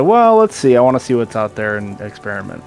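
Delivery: mock upbeat. Quoting own hopeful reasoning.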